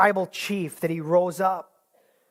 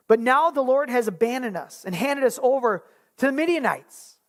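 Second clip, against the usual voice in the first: higher, incredulous protest; doubting Gideon; 5 semitones higher than usual. Acted. Gideon questioning the angel, higher and incredulous. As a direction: push back in disbelief.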